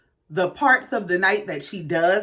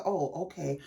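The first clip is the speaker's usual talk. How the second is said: chastened oh okay; 5 semitones lower, 11 dB quieter than usual. Retold or imitated. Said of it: "I said".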